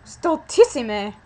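loud, slow Italian-accented Latin; accidental Italian accent, punched loudly. Real, not acted. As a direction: draw it out with an Italian lilt. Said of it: "like, an Italian accent for".

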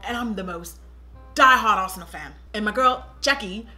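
put-on lightly done London accent; Tottenham accent. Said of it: "I'm from Tottenham".

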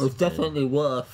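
high pained laughter; laughing. Real, not acted. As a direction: laugh through the sourness. Sour candy pain, laughing.

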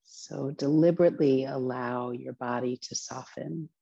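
unhurried meditation instruction with long pauses; guided relaxation. Acted. Teacher opening a relaxation practice, guided meditation voice. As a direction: guide listeners gently into the practice.

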